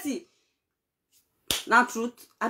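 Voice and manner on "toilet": high, loud mock wail with a crying sound; hammed-up crying wail of the man. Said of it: "now there sir come say".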